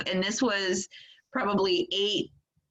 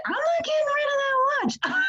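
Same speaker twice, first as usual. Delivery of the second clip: choked up; faster than usual. Real, not acted. Emotional about the treasured watch.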